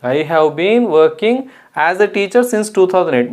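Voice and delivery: "have been" said very slowly with a rising tune; stress on have been. Shown as a demonstration. Teacher repeating the correct sentence for the class, slow on "have been". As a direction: dwell on "have been" as the right answer. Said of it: "mistake ఎక్కడ ఉంది ఇప్పుడు?".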